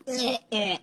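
a high, soft grossed-out eh eh; mock disgust noise. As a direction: recoil with a quiet eh eh. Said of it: "I was like".

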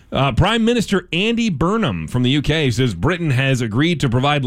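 steady radio news delivery; measured news-anchor reading. Acted. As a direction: read it as a local newscast. Reads news stories.

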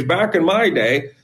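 put-on slow, old-timer drawl on the phrase; grandpa voice. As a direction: play a grumpy old grandpa reminiscing. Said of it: "I'd sound like a grandpa telling war stories".

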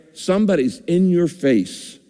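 ordinary talk

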